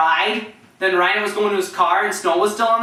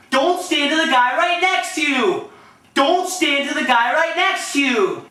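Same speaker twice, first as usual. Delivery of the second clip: high, sing-out coach impression on repeat; Horner; 6 semitones higher than usual. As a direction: call it out high, identically each time. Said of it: "Here's my Horner impressions".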